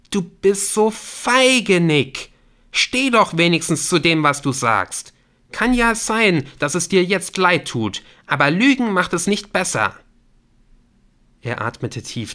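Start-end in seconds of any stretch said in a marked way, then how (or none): 0.1-9.9 high, loud, contemptuous scolding; angry reproach. Acted. Woman accusing caller of lying, angry reproach. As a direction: call him out, indignant. Claire cuts in, accusing Nick.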